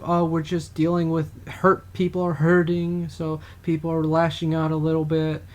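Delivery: lightly mock their excuses; sarcastic pundit impression, lightly voiced; mocking media.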